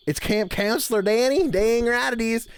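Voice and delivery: camp counselor Danny. Pretend. Streamer introducing his counselor persona to chat, light character voice. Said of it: "y'all like the voice or not".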